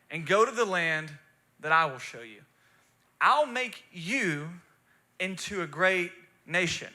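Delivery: clear, deliberate Bible reading; scripture reading. Real, not acted. Preacher reading Genesis to the congregation, measured and emphatic. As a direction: read it out firmly, phrase by phrase.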